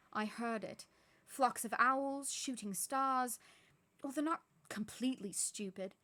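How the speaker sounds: McGonagall, scornful and loud; exasperated witch. Acted. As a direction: drag out the absurd things, fed up. McGonagall complains.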